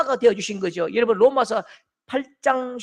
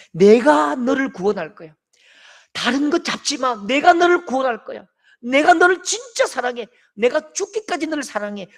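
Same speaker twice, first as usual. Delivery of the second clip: put-on Jesus promising to save his child; fervent promise; 3 semitones higher, 5 dB louder than usual. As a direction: proclaim love passionately.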